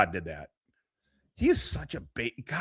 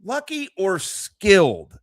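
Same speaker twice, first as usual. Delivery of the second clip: mocking question; 7 semitones higher, slower than usual. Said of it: "wonder in your head".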